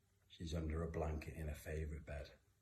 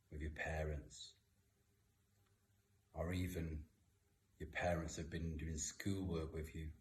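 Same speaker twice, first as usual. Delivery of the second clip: guided reflection. Acted. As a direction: guide children calmly with eyes closed. Leads kids through eyes-closed reflection.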